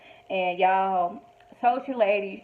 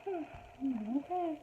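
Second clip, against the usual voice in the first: skeptical; 6 semitones higher, 12 dB quieter, much slower than usual. Real, not acted. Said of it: "I'm like".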